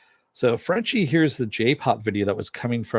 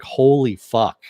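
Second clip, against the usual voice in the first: retold shock; 2 semitones higher, 5 dB louder, slower than usual. Recalls own shock at scene.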